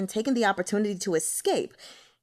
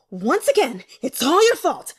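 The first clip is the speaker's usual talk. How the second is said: louder, higher furious blame; raging; 5 semitones higher, 8 dB louder than usual. A narrator's reading. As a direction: rage at Gumang for the disaster. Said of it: "he raged".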